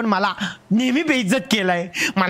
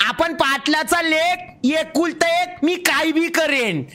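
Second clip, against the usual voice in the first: higher and slow, proudly booming; proud loud boast; 5 semitones higher, slower than usual. Acted. Boasting to the teacher about his loud voice, slow and proud. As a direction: boast as the Patil's only son. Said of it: "मी असाच बोलते".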